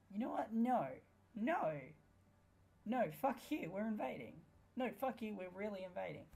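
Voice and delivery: high, loud, defiant yelling; furious shout. Real, not acted. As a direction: shout it down at the enemy. Yelling at China in game.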